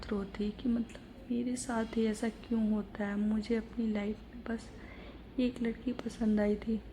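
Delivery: hushed heartbroken. Acted. Ananya sobbing alone, heartbroken.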